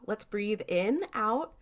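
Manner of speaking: slow, measured breathing instruction; acted breathing coach. Sam calming panicking Dean on the plane, acted breathing coach. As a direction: draw it out as if guiding someone's breath.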